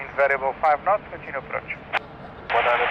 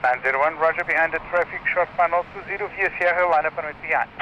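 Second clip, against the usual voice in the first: crackly radio transmission; clipped tower radio call; air traffic control radio. Real, not acted. Live tower frequency feed.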